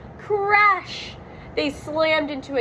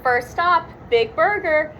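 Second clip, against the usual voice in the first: shouting; 4 semitones higher than usual. Acted. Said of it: "Shaggy shouted".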